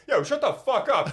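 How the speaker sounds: high-pitched imitated challenge; mock confrontational yell. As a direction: jump straight into a pretend street fight. Acting friend's instant confrontation.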